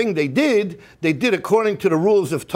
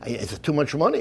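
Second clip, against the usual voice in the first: put-on elderly rabbi; 9 semitones lower, 6 dB quieter than usual. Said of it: "Rabbi Yosef says".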